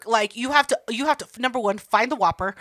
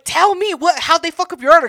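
mock demanding; 6 semitones higher, 6 dB louder than usual. Demanding details from friend.

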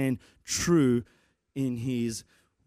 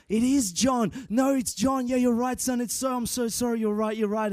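sheepish surprise; 6 semitones higher than usual. Retold or imitated. Dad admits his son is right.

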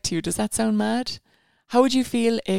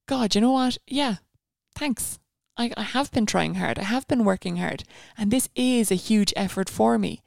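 buzzing with pride; 2 semitones higher than usual. Retold or imitated. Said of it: "You'd be absolutely buzzing".

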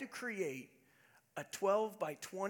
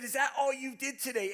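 retold remark; 7 semitones higher, 7 dB louder than usual. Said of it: "I didn't mean it in a bad way".

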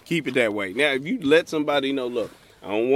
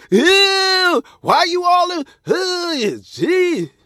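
high, loud squealing disgust; disgusted woman; 9 dB louder, much slower than usual. Retold or imitated. Woman brushing off a guy saying hi, mock disgusted squeal. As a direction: recoil like she smelled something rotten. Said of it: "She's like".

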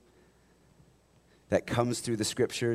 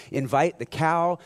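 a hint of a grand rabbi, louder and higher; lightly voiced rabbi; 6 semitones higher, 6 dB louder than usual. Rabbi advising the poor man, a hint of grandeur. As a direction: announce it like wise counsel. Rabbi gives odd advice.

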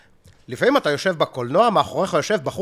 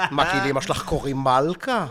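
Sagi Friedman. Retold or imitated. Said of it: "שים שגיא פרידמן".

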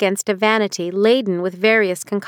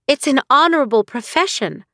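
protesting; 5 semitones higher than usual. Acted. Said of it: "Nahal protested".

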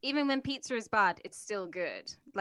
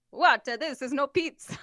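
mock outraged Italian, a sharp louder "What?"; shocked Italian; 4 semitones higher, 6 dB louder than usual. Italian handed New York pizza, mock outrage. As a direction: imitate an appalled Italian tasting American pizza. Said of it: "they'd be like".

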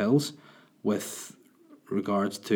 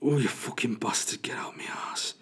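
strained groaning man; 2 semitones higher, 4 dB quieter than usual. Retold or imitated. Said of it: "he was literally going".

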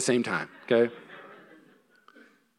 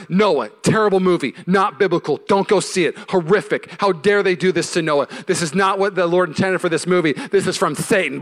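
retold angry post; 4 semitones higher, 5 dB louder than usual. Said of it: "So I was so angry".

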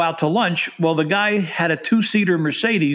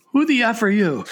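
laughing retold question; 6 semitones higher than usual. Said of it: "Tyler turns to me and says".

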